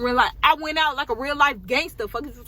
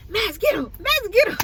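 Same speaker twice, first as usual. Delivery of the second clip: higher and louder mock yell at the dog; angry mom commanding; 12 semitones higher, 5 dB louder than usual. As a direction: sic the dog, rising in pitch. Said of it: "she was like".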